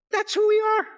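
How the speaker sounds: high, loud declaration; fervent loud preaching; ringing proclamation. Acted. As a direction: shout it triumphantly. Climax take of same line.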